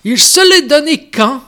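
solemn priest-style speech reading. Acted. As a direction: read it like an old parish priest addressing the crowd. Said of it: "avec une voix de curé".

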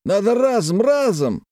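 put-on high eager cry of a drunk merchant; zealous outburst. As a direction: fling it out with drunken zeal. Galushkin voiced high.

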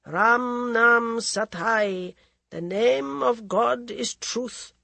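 slow, deliberate intoning; solemn mantra. Acted. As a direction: speak each word of the mantra slowly.

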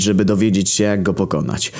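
high, eager and breathless; enthusiastic panting. Acted. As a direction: gasp it out full of excitement. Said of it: "Wysapał pełen entuzjazmu Grek".

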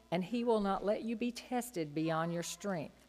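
ordinary talk, nothing marked

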